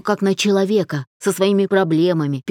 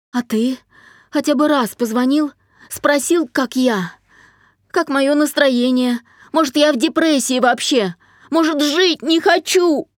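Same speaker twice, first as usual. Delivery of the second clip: high tearful pleading; a crying daughter pushing the words out; through tears; 6 semitones higher, 4 dB louder than usual. A narrator's reading. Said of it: "продолжила говорить сквозь слёзы". (дочь сквозь слёзы упрекает отца)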